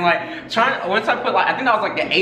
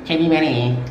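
mouth full. Real, not acted. Chubby Bunny game, marshmallows in mouth.

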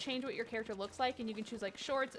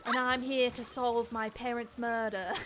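gritty reboot narrator. Pretend. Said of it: "Like a gritty reboot".

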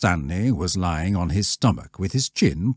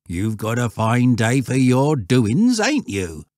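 rustic country voice, raised; old shepherd; 6 semitones higher, 5 dB louder than usual. Acted.

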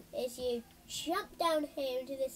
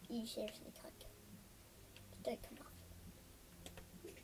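voiceless whisper, softer; whispered taunt; 3 semitones lower, 13 dB quieter than usual. Acted. Warning the attacker who chases them, whispered. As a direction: breathe it like a secret threat.

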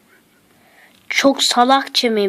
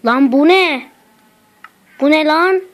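startled; 4 semitones higher, 4 dB louder than usual. Real, not acted. Startled by crying baby sound.

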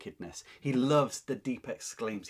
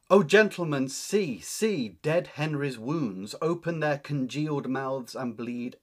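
urgent Anne; 3 semitones higher, 6 dB louder than usual. Acted. Teacher reads Anne pointing out wounds.

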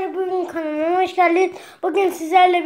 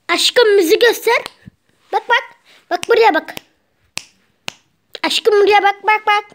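pet talk; 6 semitones higher than usual. Real, not acted. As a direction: coo at the bird to make it look. Baby talk to her parrot. (papağanına yüksek, tatlı sesle sesleniyor)

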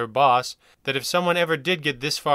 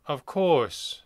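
without humor; 2 semitones higher than usual. Acted. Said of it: "without humor".

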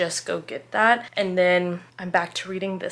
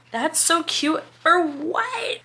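gushing; 7 semitones higher, much slower than usual. Retold or imitated. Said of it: "I was like".

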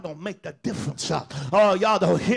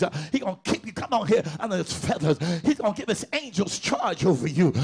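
preaching; 2 semitones higher than usual. Acted. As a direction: preach it full force to the church. Preaching at full force.

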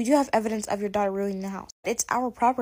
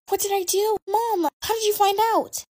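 caught out; 9 semitones higher, 4 dB louder than usual. Acted. Caught by parents.

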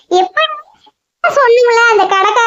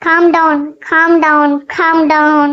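a self-soothing calm down, lower each time; calming herself; 5 semitones lower, much slower than usual. Acted. Angry girl talks herself down to calm. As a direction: breathe it out and settle. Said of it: "cool ஆயிட்டா".

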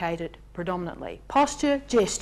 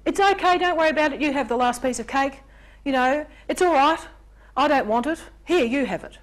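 self-sacrificing giver; 4 semitones higher than usual. Pretend. Self-sacrificing rescuer voiced.

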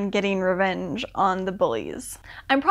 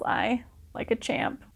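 breathy whispered aside tacked onto the sentence; unvoiced whisper, amused; 6 dB quieter than usual. Real, not acted. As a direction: drop to a whisper like sharing a guilty delight. Gleeful aside about gross detail.

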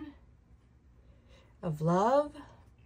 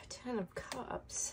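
slow whispered card name; hushed whisper; 4 semitones higher, 11 dB quieter, much slower than usual. Real, not acted. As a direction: breathe Ten of Cups out slowly. Emotional reader names a card.

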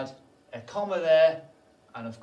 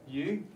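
YOU raised in pitch as a question; 4 semitones higher than usual. Acted. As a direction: ask YOU as a short question. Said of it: "you" is a question".

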